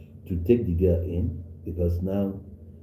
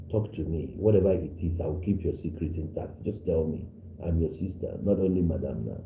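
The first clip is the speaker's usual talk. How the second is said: soft coaxing plea. Retold or imitated. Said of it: "try to win, you know, the confidence of the girl".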